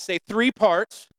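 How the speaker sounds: drawn-out, emphatic "three parts", urging them to shout; rallying call. Shown as a demonstration. Preacher asks congregation to shout it back, rallying call. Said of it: "Come on, shout that".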